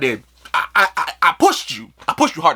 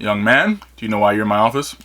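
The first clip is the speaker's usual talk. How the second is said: tag; 10 semitones lower, faster than usual. Retold or imitated. Voices principal questioning him in office.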